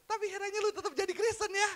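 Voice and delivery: high, laughing jab at the crowd; laughing tease. Real, not acted. Preacher laughing as he teases churchgoers who stay Christian. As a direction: tease them through a laugh.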